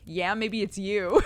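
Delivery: a creepy keeper taunting a visitor; menacing zookeeper. Retold or imitated. Guy menaces dude at zoo.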